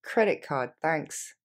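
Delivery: quick, brisk answer; fast casual reply. Shown as a demonstration. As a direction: rattle it off quickly. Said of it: "Plus rapidement".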